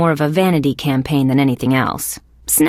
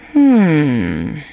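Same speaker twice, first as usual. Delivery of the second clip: long, falling "hmm"; low, drawn-out hum sliding down; pondering hum; 4 semitones lower, 3 dB louder than usual. Acted. Detective sizing up Sticks on the mine, pondering hum.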